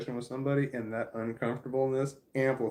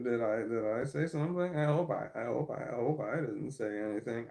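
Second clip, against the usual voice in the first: repeating words, stuck on starts; stammering. Real, not acted. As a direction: stumble over the opening words. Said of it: "I have a stammer. I'm stammering".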